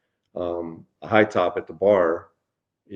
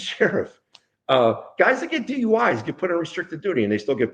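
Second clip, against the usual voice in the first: mildly indignant, higher-pitched appeal; indignant plea; 5 semitones higher than usual. Retold or imitated. Deputy pleading with the sheriff for paid status, indignant. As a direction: press the case in a higher voice.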